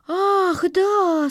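bright high "ah yes" of the kindergarten teacher; caretaker's voice. A narrator's reading. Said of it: "согласилась воспитательница".

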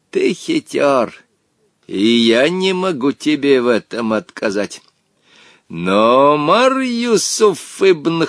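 mild smug gloat, slow start; a genie gloating over a clever boy. Acted. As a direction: savour your win over the boy. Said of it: "злорадно произнёс".

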